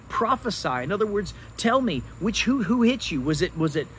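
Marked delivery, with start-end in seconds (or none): 0.1-0.8 higher-pitched mocking command; imitated mockery. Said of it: "they're mocking him by saying". 1.6-3.9 imitated mockery. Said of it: "they're mocking him by saying".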